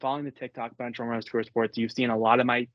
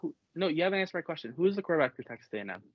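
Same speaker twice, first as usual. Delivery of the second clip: insistent fast questioning; 5 semitones higher, faster than usual. Real, not acted. Pressing cohost for quarterback name.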